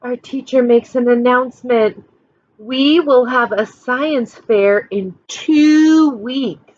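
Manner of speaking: put-on reading a picture book to children; lively storytime voice for a class; expressive read-aloud for kids; story narration. A narrator's reading.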